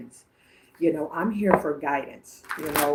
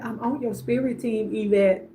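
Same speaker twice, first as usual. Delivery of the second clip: higher-pitched sassy quote; 6 semitones higher than usual. Retold or imitated. Medium repeating grandmother's promise to Yvette, sassy. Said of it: "she is a handful".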